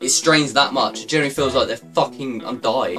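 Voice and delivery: winded from the stairs; breathless, panting after climbing; out of breath. Real, not acted. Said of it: "I'm out of breath from walking".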